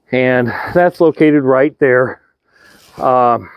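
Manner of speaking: short of breath, slow and labored. Real, not acted. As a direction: talk while out of breath. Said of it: "pardon me, I'm short of, a little short of breath there".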